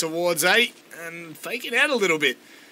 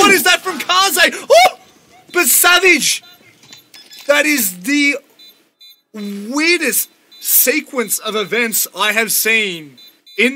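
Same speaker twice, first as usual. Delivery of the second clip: screaming, much higher and louder; esports caster; 8 semitones higher, 10 dB louder, slower than usual. Real, not acted. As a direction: go all out on the big play. Screaming caster call of big play.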